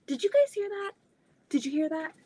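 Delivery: high alarmed question to viewers. Real, not acted. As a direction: still shaken from the crash. Startled by loud noise.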